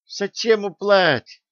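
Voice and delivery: put-on a lisping old craftsman, honestly baffled; sincerely surprised. A narrator's reading. One-eyed craftsman wonders why remove the mead, surprised. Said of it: "искренне удивился тот".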